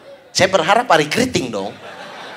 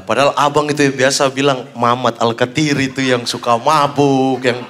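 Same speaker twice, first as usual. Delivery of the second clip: puzzled fan; 6 semitones lower than usual. Retold or imitated. Retold fan repeating his gossip.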